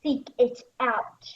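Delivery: rally the room in fury; outraged shout. Acted. Hamlet cries treachery.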